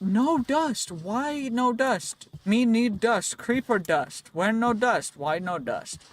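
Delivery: high, loud pidgin caveman whine; mock caveman. Gamer hunting creepers finds no dust, mock caveman. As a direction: play an outraged caveman demanding dust.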